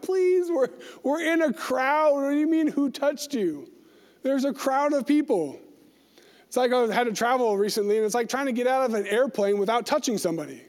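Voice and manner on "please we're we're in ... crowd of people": mock-exasperated protest, pitched up at the start; incredulous disciples. Disciples answering Jesus in a crowd, exasperated. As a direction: act out baffled followers objecting.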